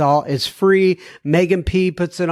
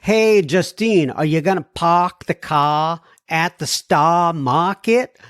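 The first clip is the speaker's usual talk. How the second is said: put-on playful Boston accent, raised pitch. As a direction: tease her in a Boston accent. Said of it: "I have a bit of a Boston accent".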